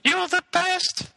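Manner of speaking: very high, slow robotic falsetto; sing-song auto-tuned robot voice. Pretend. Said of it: "Robin voice".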